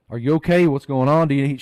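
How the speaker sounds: mildly alarmed, pressing questions; worried brother. Retold or imitated. Brother asks his sister what's going on, mildly alarmed.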